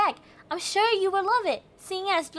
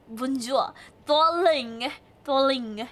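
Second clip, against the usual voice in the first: French accent; 4 semitones lower, slower than usual. Shown as a demonstration. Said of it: "how do you do a French accent?".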